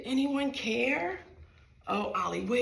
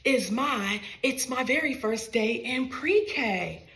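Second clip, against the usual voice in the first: cheerful greeting; 5 dB louder than usual. Acted. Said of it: "this is what she said".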